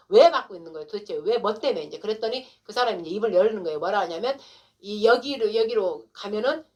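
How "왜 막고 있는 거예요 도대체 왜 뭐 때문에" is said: louder pointed question at police; indignant demand. Retold or imitated. Confronting police blocking the road, demanding why loudly. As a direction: push the question hard.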